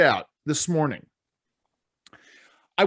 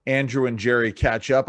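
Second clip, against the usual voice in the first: radio voice. Acted. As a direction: greet the listeners like a DJ. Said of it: "I was using my radio voice".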